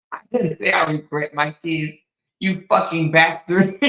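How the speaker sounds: loud mock yell at the ex, imitating Cora. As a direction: shout it like she snapped at him. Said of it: "Cora said".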